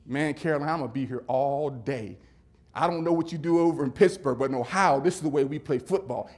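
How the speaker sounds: lightly voiced linebacker talking trash; trash-talking opponent. Linebacker taunting a downed player, mock trash talk. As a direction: taunt like a cocky rival, lightly acted. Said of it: "this guy's talking".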